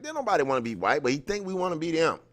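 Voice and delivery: mocking Plecker's view. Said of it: "He was like".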